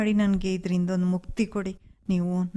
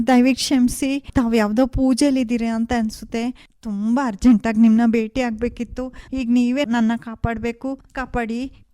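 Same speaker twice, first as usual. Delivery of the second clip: urgent plea; 4 semitones higher, 5 dB louder than usual. Acted.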